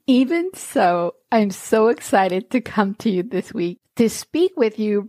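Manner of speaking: half-numb face, slightly slurred; talking with a numb mouth; numb from the dentist. Real, not acted. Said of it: "if I sound a little weird ... half my face is still numb".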